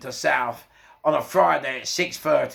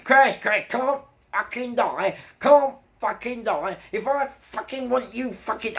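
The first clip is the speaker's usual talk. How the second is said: fuming inner rant; 9 semitones higher, slower than usual. Retold or imitated. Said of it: "oh, I was fuming".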